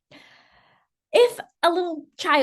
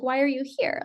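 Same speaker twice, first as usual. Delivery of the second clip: mildly curious, easy question; a touch of acted curiosity; 3 dB quieter than usual. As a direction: ask it lightly with gentle interest. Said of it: "Instead of curiosity".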